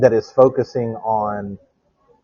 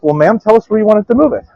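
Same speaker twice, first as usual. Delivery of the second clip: movers' reply; 10 semitones higher, 5 dB louder, faster than usual. Retold or imitated. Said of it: "they're like".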